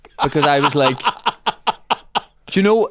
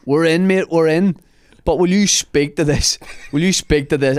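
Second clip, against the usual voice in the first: put-on drunk pleading; 4 semitones higher than usual. Drunk mate at the gate pleading on the phone. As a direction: beg down the phone like a drunk lad.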